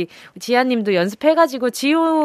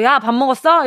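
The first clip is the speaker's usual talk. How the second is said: brusque sibling call. Shown as a demonstration. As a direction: demo of a curt "야" greeting. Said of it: "이렇게가 아니라". (동생을 툭 부르는 말투 시범)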